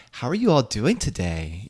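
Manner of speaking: lightly voiced sugary server greeting. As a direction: put on a fake-friendly waiter voice. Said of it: "the server voice where the server walks up".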